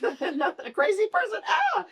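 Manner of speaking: high, slow joking shout; mock shout. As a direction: belt it out like a comic punchline. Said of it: "I'm like".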